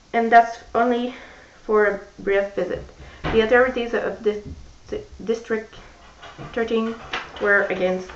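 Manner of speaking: put-on careful English read-aloud with a French accent; measured first-person story narration. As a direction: read the novel's opening slowly to the class. Reads Mockingjay extract aloud.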